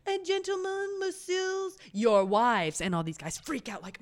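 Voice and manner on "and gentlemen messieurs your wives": high, sing-out brothel madame; French madame. Retold or imitated. Madame presenting wives to the men, high theatrical voice. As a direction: announce it like a showy madame, pitched up. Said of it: "madame of the house comes up and goes".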